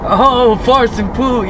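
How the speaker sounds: slow drawn-out mocking echo; mock slow imitation. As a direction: repeat it slowly to tease. Mocking friend's misheard words.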